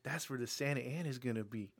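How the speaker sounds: hammed-up Southern weatherman; Southern accent. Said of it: "why is he Southern?".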